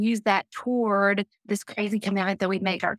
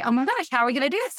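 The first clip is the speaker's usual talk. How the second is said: retold worried fretting; 4 semitones higher, much faster than usual. Retold worried husband on payday.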